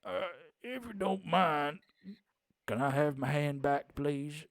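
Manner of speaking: lightly voiced awkward man with a bad ankle; awkward injured guy. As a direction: ask nervously for your hand back. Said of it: "he goes".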